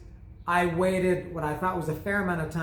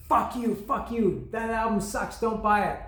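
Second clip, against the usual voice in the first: mock inner curse; 6 semitones higher than usual. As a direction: hiss him away in your head, hammed up. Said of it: "In my head, I'm saying that".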